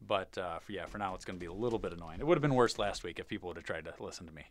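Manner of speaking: stuffy nose after surgery; blocked nasal voice; nasally. Real, not acted. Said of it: "if I sound a little nasally".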